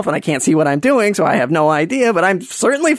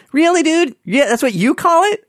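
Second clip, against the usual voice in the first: sarcastic high mock surprise, pitched up; mock incredulous; 12 semitones higher than usual. Comic to the meat packer, high sarcastic mockery. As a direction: scoff at him in a much higher voice. Mocking the coworker's joke.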